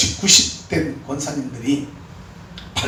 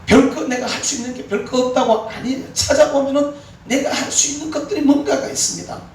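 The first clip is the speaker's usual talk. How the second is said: rising exhortation; 11 semitones higher than usual. Real, not acted. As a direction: lift them up with urgency. Preacher exhorting congregation.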